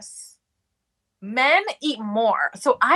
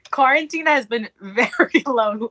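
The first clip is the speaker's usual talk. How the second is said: laughing through the words. Real, not acted. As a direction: giggle mid-sentence. Laughs through serious answer.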